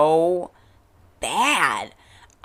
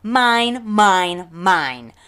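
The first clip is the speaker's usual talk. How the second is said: put-on high, loud childish "mine"; mock her like a greedy toddler; mocking possessive whine; 4 semitones higher, 5 dB louder, much slower than usual. Mocking Becky's claims, in a high loud childish whine.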